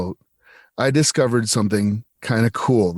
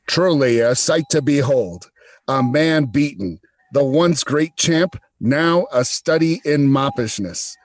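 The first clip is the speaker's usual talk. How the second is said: put-on old-timey radio voice. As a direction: voice through a metal cup, like an old radio. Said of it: "Old-timey radio voice".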